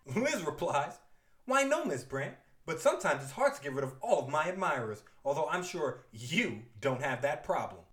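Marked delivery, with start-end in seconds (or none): 1.5-7.8 sugary, catty put-down; sweet on top, venom underneath; shady sweetness. Acted. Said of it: "They are shady right now".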